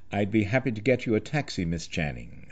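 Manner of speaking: hushed, quick offer, softening at the end; retold whisper. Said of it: "close enough to whisper".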